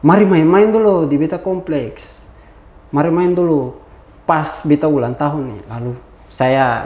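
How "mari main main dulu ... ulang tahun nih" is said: friendly retold invitation in Ambonese dialect; lightly acted Ambonese phone call; Ambonese Malay. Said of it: "ini dalam bahasa Ambon".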